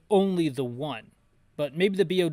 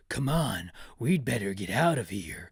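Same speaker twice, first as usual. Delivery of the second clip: urgent Barry; 5 semitones lower, 3 dB louder than usual. Acted. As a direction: lower urging soldier voice. Voicing Barry urging escape.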